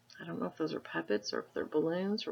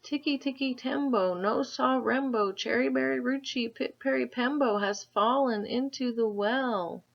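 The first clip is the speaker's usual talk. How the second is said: higher, louder breathless plea; breathless boy; 7 semitones higher, 4 dB louder than usual. A narrator's reading. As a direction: rush the long name as a winded boy. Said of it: "he panted".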